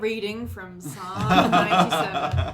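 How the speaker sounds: slow, lightly voiced church reader; mock scripture reading. Player announcing a psalm reading, mock-solemn. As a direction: read it out slowly, barely holding the laugh. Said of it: "Here is a reading from".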